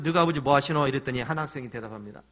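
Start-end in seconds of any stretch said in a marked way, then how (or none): 0.0-0.9 loud, stern Gyeongsang teacher's demand; a louder, harsher retake of the teacher's line. Retold or imitated. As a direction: bark the question at the student. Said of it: "그래서".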